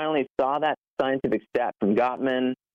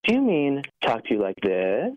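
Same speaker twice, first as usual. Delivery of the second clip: sarcastic retort, lightly voiced; wife's sarcastic reply, a hint of mockery; mock sarcasm; 2 semitones higher, slower than usual. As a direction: throw the words back sarcastically. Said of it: "with complete sarcasm".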